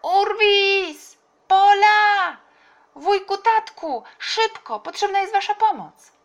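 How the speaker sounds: put-on very high, loud girl's shouts; urgent calling. A narrator's reading. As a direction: summon everyone from far off. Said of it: "Tola na przemian nawoływała". (głośne, wysokie nawoływanie)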